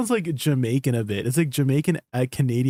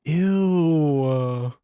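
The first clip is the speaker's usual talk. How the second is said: disgusted; much slower than usual. Real, not acted. Recoils at eyelash bug clip.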